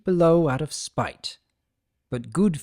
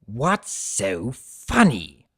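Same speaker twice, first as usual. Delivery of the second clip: gruff centaur; much slower than usual. Acted. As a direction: let it drag out, suspicious. T-Rex speaks in the story.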